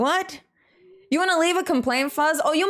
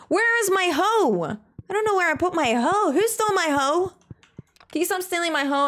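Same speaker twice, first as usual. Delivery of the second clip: mock indignation; 6 semitones higher than usual. Playfully accusing while hunting lost hoe.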